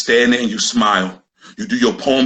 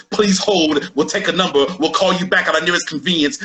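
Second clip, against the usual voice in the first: a lightly voiced, higher phone-menu God; God as a hold message; 5 semitones higher than usual. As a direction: say it like a bored automated hold line.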